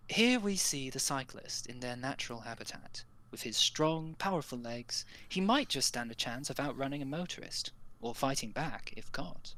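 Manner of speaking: hushed nature documentary narrator; BBC documentary narration. Shown as a demonstration. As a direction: narrate like a wildlife film. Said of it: "You gotta give it, like, the, you know".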